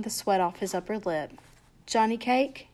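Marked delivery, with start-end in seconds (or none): 1.9-2.7 hoarse, half-choked call. Acted. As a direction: call his name hoarsely. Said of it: "he said in a hoarse voice".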